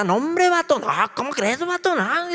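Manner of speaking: loud, high imitation of a norteño accent; northern Mexican accent. Brother back from the north, loud norteño accent. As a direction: ham up the northern accent he brings home. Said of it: "regresa con un acento acá machín".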